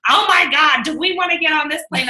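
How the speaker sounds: lightly hammed-up alarm; mock worried friend. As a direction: imitate a nervous flyer. Imitating friend's worried remark.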